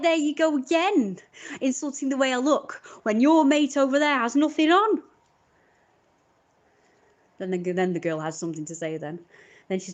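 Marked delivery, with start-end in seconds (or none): 0.0-5.0 loud, high exasperated comeback, louder; exasperated retort. Retold or imitated. Telling the boy off for insulting her looks, exasperated and loud. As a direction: snap back at the teen in frustration.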